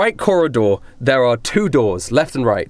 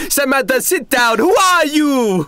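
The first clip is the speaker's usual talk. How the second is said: high, shouted, slow who are you; barking boss; 10 semitones higher, slower than usual. Acted. Boss shouts at the stranger in his room. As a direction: order the girl off, then glare at the stranger. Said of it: "zipping up his pants".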